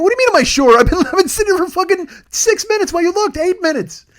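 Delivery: high, loud indignant rant; re-enacted exasperated yelling at the clerk; mad outburst. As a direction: explode in high-pitched outrage. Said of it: "I'm getting mad now".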